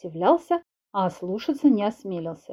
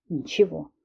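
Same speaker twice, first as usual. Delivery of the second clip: grumble; 5 semitones lower, 3 dB quieter than usual. Acted. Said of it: "буркнул Филипп".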